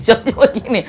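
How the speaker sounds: said through a laugh, lifting up; mock the complainer while laughing; laughing mock complaint. (menirukan keluhan sambil tertawa)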